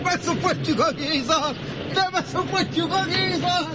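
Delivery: high-pitched, excited scheming; gleeful plotting. Real, not acted. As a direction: relish the prank, voice pitched right up. Delighted at the prank plan.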